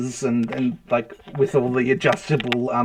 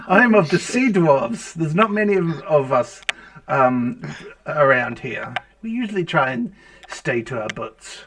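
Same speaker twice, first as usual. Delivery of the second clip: Irish dwarf; 3 dB louder than usual. Acted. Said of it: "Not heard an accent like yours before".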